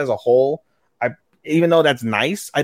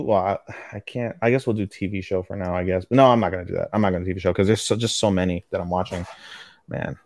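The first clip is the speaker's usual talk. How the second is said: ordinary delivery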